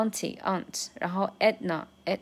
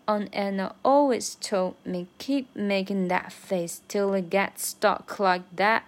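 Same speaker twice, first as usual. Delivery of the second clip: breathy whisper, "always" and "keep" lifted; stress always and keep. Shown as a demonstration. Learner whispers the line with stress. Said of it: "这个always和keep要突出出来".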